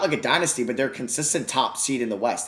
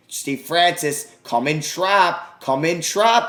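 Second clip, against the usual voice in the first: rising from urging to yelling; urging his player louder and louder; building shout; 5 semitones higher, 5 dB louder, much slower than usual. Real, not acted. Gamer yelling at the AI to trap, building shout. Pleading with teammate during trap.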